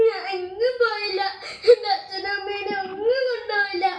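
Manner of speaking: put-on weep out the words like a left-out kid; crying child. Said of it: "അനിക്കുട്ടി എന്തിനാ കരയുന്നത്?". (കരഞ്ഞുകൊണ്ട്)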